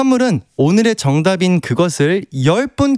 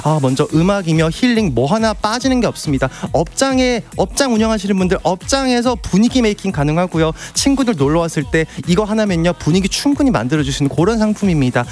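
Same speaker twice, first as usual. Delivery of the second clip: upbeat home shopping sales pitch; TV shopping host. Acted. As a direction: sell it like a shopping channel host. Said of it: "쇼호스트 가수 이제 출근합니다".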